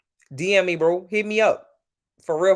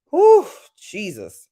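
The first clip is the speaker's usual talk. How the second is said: wow exclamation; 5 semitones higher, 9 dB louder, much slower than usual. Real, not acted. Reacting to memory of barbecue.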